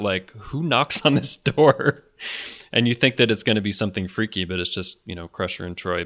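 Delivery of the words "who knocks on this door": higher, slow, mildly spooked quote; half-laughing mock unease; kind of freaked out. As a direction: imitate mild alarm, drawing it out. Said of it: "he's kind of freaked out".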